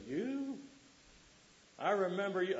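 high-pitched mock disbelief on "You?"; incredulous recognition. Hometown folk hearing he's a minister, imitated in high-pitched disbelief. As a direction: imitate amazed old acquaintances, pitched well up.

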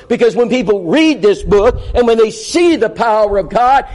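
building sermon appeal, rising with conviction; preaching to the congregation. Real, not acted. Preacher urging the congregation to study, with rising conviction. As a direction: press the message home to the church.

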